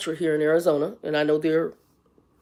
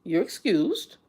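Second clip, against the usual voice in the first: sarcastic retort; 5 dB quieter than usual. Retold or imitated. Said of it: "I said".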